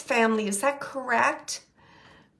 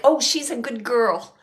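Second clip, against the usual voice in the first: louder, playful quoted tease; lightly tease, imitating his banter; teasing; 7 dB louder than usual. Medium passing on his teasing to Kathy, playfully teasing. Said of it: "he's, like, teasing in a way".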